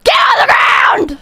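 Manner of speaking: mock cop barking an order; imitating a cop. Half-hearted cop command. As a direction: streamer imitates a cop shouting at the agent, mild mock cop yell. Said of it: "he comes up and he's like".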